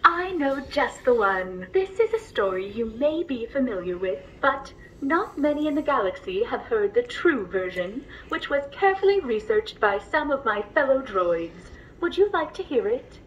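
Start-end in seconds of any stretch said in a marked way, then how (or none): 1.7-13.2 gentle storyteller voice, unhurried; bedtime story narration. Acted. Droid reading a bedtime story to the passenger, gently.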